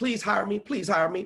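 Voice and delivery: desperate, pleading, begging tone. Mocking how broke speakers ask for work: mock desperate begging. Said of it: "begging in desperation mode".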